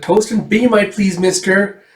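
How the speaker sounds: put-on high, eager little-girl voice; girlish Erica. Erica asks the cafeteria man for toast, in a high girlish voice. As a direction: pipe it up like a small girl asking politely.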